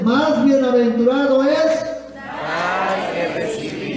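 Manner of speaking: "Más bienaventurado es" drawn out, left open; cue to complete. Shown as a demonstration. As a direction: lead the crowd with a slow "Más bienaventurado es". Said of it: "pero usted va a completar". ("Más bienaventurado es" alargado, dejado en suspenso)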